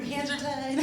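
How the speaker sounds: high, apologetic corporate white voice; white bad-news voice. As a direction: deliver bad news like a polite white boss. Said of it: "that's how white people talk to you when they have bad news".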